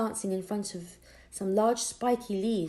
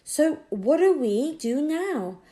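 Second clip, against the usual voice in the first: put-on eager boy; 6 semitones higher, 6 dB louder, slower than usual. Tom voiced by narrator.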